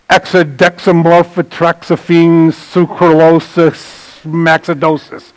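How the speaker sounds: slow, drawn-out fake chemical name; drawn-out mock scientific jargon; mock chemical gibberish. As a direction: sound out a made-up ingredient slowly. Mocking unpronounceable ingredient names.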